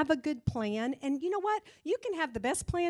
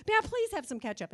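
put-on polite little boy; 9 semitones higher than usual. Boy finally asks politely.

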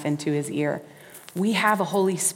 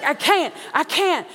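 exhausted player pleading; 9 semitones higher than usual. Acted. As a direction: beg the coach, worn out. Player at his limit.

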